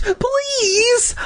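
high, pleading cry; frightened plea. A narrator's reading. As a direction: beg him to stop. Frightened child pleads with attacker.

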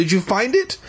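high eager asking; eager question. Acted. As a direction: ask it breathless with hope. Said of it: "he asked eagerly".

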